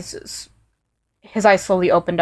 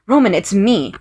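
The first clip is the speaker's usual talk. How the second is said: pleading; 2 semitones higher, 4 dB louder than usual. Acted. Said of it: "I pleaded".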